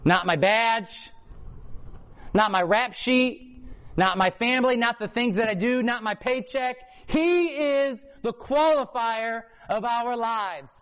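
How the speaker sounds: slow, emphatic preaching crescendo; preaching build. Real, not acted. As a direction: hammer each not home. Preached climactic list.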